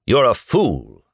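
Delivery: storybook anger; angry retort. A narrator's reading. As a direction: throw it out in mild anger. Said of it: "hot with anger".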